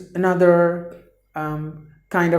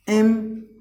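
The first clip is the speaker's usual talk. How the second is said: syllable by syllable; 4 semitones higher than usual. Shown as a demonstration. Teacher demonstrating a new word, syllable by syllable. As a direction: sound out im-puh-lite with gaps between.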